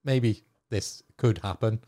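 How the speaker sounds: high, breezy mock "whatever" voice; mock shrug-it-off. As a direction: toss it off like a carefree fan. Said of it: "you kind of just have to go".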